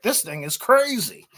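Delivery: slow, high-pitched exclamation of amazement; amazed customer. Retold or imitated. Magnet seller quoting customers' messages about Kratos, amazed. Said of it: "constantly getting emails or messages".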